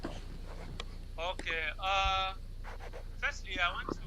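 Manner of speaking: faint, distant caller far from phone; barely audible. Real, not acted. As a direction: voice fading into the background. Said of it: "We can barely hear you".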